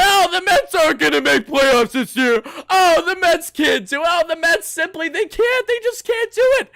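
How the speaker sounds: high, whiny mock imitation, climbing; mocking the doubters. Fan imitating those who doubted the team, mocking. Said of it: "Everyone said".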